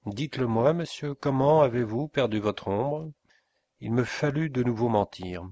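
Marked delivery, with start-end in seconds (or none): 0.1-3.1 a hint of menace, a touch louder; the inspector demands how the shadow was lost, menacing. Mildly threatening question. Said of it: "d'un ton menaçant".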